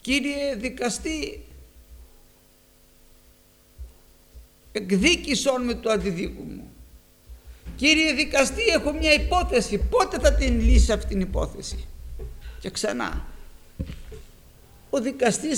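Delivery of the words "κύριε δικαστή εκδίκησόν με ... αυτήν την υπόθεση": pleading widow calling. Retold or imitated. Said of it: "και του φώναζε".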